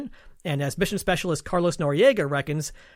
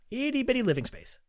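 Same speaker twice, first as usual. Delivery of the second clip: genie; 7 semitones higher, 4 dB quieter than usual. Retold or imitated. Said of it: "just like the genie said".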